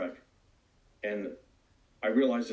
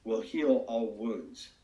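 slow, measured, solemn pronouncement; lightly voiced divine answer, unhurried; voice of God; slower than usual. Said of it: "But God answered and said".

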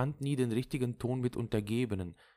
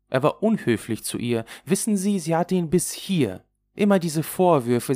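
animated, louder stream of grievances; indignant Lulu; 7 semitones higher, 6 dB louder than usual. Acted. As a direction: rattle off the reproaches with rising emphasis. (aufgebracht plaudernde Lulu)

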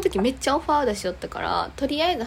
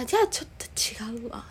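drops to a breathy whisper; quietly imitating her own awkward refusal; hushed aside; 4 dB quieter, much faster than usual. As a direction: backs off in a near-whisper. Her quiet retold reply to him.

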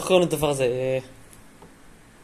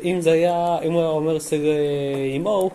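insistent; 3 semitones higher, 4 dB louder, slower than usual. Real, not acted. Arguing the vowel rule.

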